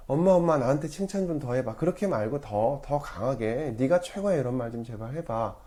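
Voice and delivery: a grown-up lightly imitating a kid begging for compliments; childlike pleading. Imagined needy child begs mom.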